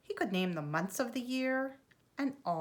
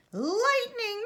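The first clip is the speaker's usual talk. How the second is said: much higher frightened shriek; 14 semitones higher, 5 dB louder than usual. A narrator's reading. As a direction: cry out in sudden terror. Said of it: "shrieked Franklin".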